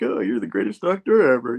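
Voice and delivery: retold over-friendly flattery; mock chummy. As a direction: lay on the chumminess playfully. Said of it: "you know, chummy with her".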